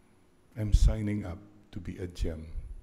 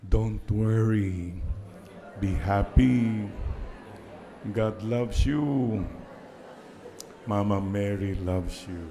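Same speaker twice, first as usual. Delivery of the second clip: reassuring; slower than usual. Shown as a demonstration. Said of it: "sabi mo sa kanya".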